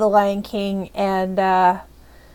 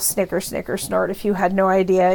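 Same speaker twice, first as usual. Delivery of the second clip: inner gloating; 4 semitones lower, 6 dB quieter than usual. Retold or imitated. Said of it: "I'm thinking to myself".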